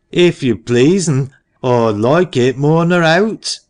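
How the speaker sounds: put-on eager boy. A narrator's reading. Eager boy answering parson.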